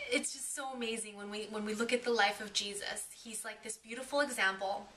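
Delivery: choked up, fighting back tears; crying. Real, not acted. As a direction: voice breaking into tears. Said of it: "I'm sorry, I'm crying".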